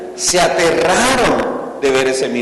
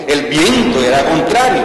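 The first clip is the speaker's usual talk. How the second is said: eyes opened wide, a little louder; wide-eyed emphasis; 3 dB louder than usual. Shown as a demonstration. Pastor shows how to tell your neighbour, eyes wide and emphatic. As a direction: say it with wide eyes, making a point. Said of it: "Y le abre los ojos así".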